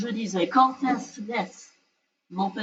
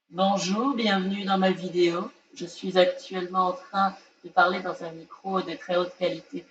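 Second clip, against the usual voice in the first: talking into a spinning fan; fan in front of mouth; 3 semitones lower than usual. Real, not acted. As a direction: voice chopped by a fan. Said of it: "juste mon ventilateur devant la bouche".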